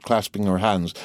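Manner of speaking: usual speaking voice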